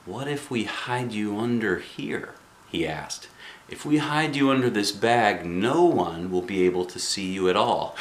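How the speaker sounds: hushed kindly principal; soft principal. Acted. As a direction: coax the child gently.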